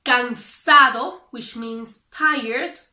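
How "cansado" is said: cansado with a full D; cansado, slow and careful; standard Spanish. Shown as a demonstration. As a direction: say cansado letter by letter. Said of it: "if they want to say".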